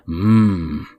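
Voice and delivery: long relishing hum; savoring "mmm". A narrator's reading. Al blurting to the entire class, savoring hum. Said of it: "inhale deeply and say".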